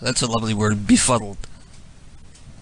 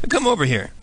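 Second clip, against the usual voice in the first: ordinary delivery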